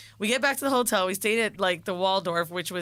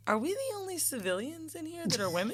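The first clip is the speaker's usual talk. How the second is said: high, soft quoted voice; mimicking her friend; 7 semitones higher, 8 dB quieter than usual. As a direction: imitate her friend, higher and softer.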